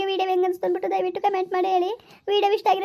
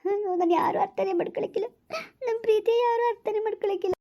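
tearful lament, voice wet with crying; crying softly; 3 semitones higher than usual. Acted. Girl cries to her lover about her family. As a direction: cry through the words, quietly hurt. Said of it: "ಅಳ್ಬೇಡ, ಸುಮ್ಕಿರು".

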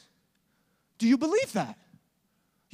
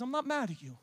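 broken-hearted Jesus. Acted. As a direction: speak gently through sorrow. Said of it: "He says".

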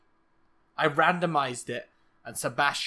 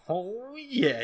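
higher, drawn-out, rise-and-fall gloat; proud dad; 6 semitones higher than usual. Acted. Gamer voicing Sebastian proud of the baby, gloating. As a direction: stretch it out with swelling self-satisfaction. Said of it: "He's just so proud".

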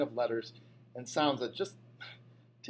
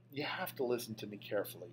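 softer, even, soothing announcer tone; a teacher's measured radio calm, softer; 3 semitones lower, 8 dB quieter than usual. A narrator's reading. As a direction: talk him down like a calm radio host. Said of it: "she said in a calm radio voice".

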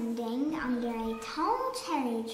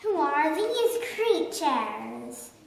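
mild bellow. Acted. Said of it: "he bellowed".

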